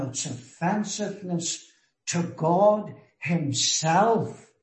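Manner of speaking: deliberate stress on "truly repenting, remorseful, sorrowful", set apart by pauses; emphatic preaching. Real, not acted. Preacher pressing the condition for true repentance on listeners, emphatic. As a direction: weigh each phrase, pausing, building to "God himself". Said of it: "put the emphasis on this".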